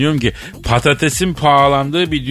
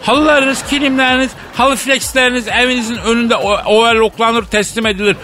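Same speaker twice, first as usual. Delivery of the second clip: mock street vendor megaphone call; 10 semitones higher than usual. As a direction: bellow it like a van vendor selling rug overlocking. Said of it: "bağıran garip bir ses".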